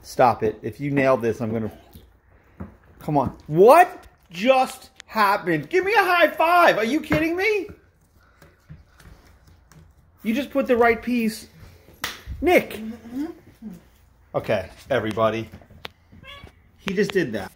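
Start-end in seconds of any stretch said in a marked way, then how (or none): 3.5-12.8 high, delighted praise for a puzzle piece; excited cheer. Real, not acted. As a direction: celebrate like he just scored. Cheering son's puzzle success.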